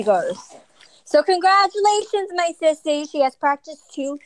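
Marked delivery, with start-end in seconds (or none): 3.1-4.2 winded and puffing while talking; breathless from carrying things; out of breath. Real, not acted. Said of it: "Oh my God, I'm out of breath".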